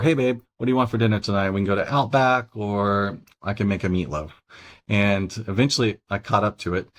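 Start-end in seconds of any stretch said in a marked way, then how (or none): 0.0-4.3 lightly voiced wife, quick and sweet; a touch of the wife asking, fast x1.6; imitating wife.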